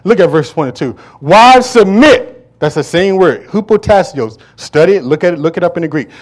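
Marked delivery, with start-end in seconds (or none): 1.2-2.3 slow emphatic read. Real, not acted. Preacher drawing out scripture.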